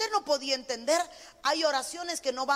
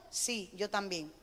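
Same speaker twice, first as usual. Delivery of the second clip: put-on child's reply; 7 semitones lower, 9 dB quieter, slower than usual. Child answers mother, voiced.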